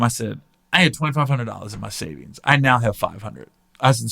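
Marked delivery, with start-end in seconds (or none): 0.7-3.5 low, matter-of-fact retold statement; blunt. Lender to the friend who owes him, blunt. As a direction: lay out the figures bluntly, pitch down. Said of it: "very blunt with him".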